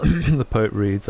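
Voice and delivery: slow, hammed-up grand reader's announcement; mock poet voice. Shown as a demonstration. Playful streamer obliges a viewer's request for the poet voice, mock grand and slow. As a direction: clear the throat and announce it like a pompous poet. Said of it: "the poet reads, please".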